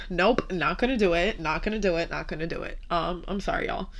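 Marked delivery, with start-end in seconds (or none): 0.1-2.8 holding back tears. Real, not acted. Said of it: "I'm not about to cry".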